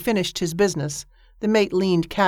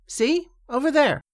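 excited; 8 semitones higher than usual. Acted. Mate points again.

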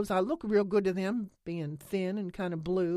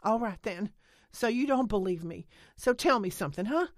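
much louder and higher, building; loud angry challenge; 9 semitones higher, 9 dB louder than usual. A narrator's reading. Lena challenges Nance loudly enough for Holly to hear. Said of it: "her voice was loud enough to carry".

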